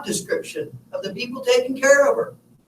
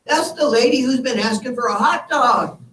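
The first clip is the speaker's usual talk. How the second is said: beaming nurse; 4 semitones higher than usual. Retold or imitated. Hospital nurse greeting the visiting son, grinning and higher. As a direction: retell the cheerful nurse with a big smile. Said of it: "she smiles this big smile and says".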